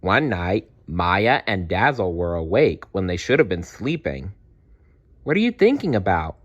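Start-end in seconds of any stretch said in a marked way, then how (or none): 5.2-6.4 put-on curious girl. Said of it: "Maya asked her friend".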